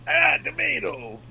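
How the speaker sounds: put-on high, drawn-out Jersey accent; New Jersey accent. Teasing a friend with tomato, high Jersey accent. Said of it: "a little New Jersey still left in you".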